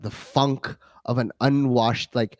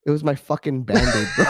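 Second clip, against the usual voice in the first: shouted punchline. Real, not acted. Punchline of the funny story.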